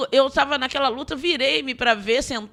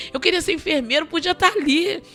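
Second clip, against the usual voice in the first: higher, pleading and aggrieved; sermon testimony, reliving a tearful quarrel with God; retold tearful protest to God; 5 semitones higher than usual. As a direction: relive arguing with God, voice pitched up in hurt. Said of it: "eu brigando com Deus".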